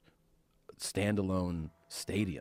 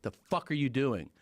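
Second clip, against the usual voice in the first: outraged heckle, pitched up; retold yelling; 5 semitones higher than usual. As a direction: imitate an angry onlooker confronting someone. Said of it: "People were yelling".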